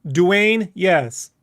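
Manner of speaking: "Dwayne, yes" said as the surname Duenas, dwayne-YES in two clear parts; correct pronunciation. Shown as a demonstration. Asked by co-host to say his surname correctly, careful "Dwayne, yes". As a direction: carefully sound out "Dwayne, yes", with a y starting the ending. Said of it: "say it correctly for me right now".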